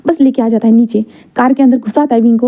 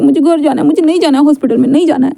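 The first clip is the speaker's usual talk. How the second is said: pleading protest; 4 semitones higher than usual. Acted. Wing refuses the hospital.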